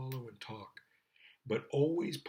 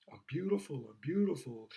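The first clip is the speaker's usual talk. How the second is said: vain mock girl; 3 semitones higher than usual. Mocking vain girls.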